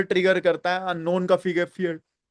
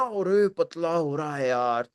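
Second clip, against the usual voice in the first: slow, lower, teasing friend voice; mocking acquaintance; 4 semitones lower, 4 dB quieter, slower than usual. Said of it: "but मेरा". (धीमी, नीची आवाज़ में छेड़ते हुए दोस्त की नकल)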